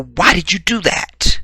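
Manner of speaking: high, startled mock protest; indignant exclamation. To girlfriend after sandwich lands in lap, indignant exclamation. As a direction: exclaim it high, as to someone you know. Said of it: "That would be your exclamation".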